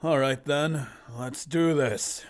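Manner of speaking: loud, confident hero line; self-assured fighter squaring up. Acted. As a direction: say it boldly, drawing out the ending. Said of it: "confidently saying".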